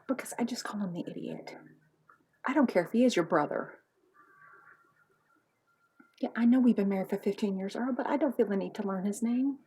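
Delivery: lightly voiced nagging wife; a hint of an exasperated spouse; bickering wife. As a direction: grumble at your husband about his brother.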